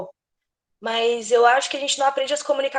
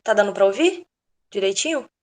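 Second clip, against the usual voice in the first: too loud, headphones on; 4 dB louder than usual. Real, not acted. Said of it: "Porque eu tô com fone".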